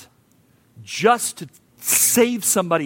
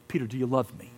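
hushed Jesus; 4 semitones lower, 6 dB quieter, faster than usual. Acted. Jesus asks Peter the first time.

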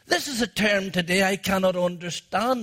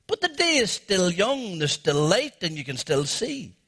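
a hint of a protesting businessman; lightly voiced pushy businessman; objecting businessman; 2 semitones lower than usual. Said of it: "The man of commerce objected".

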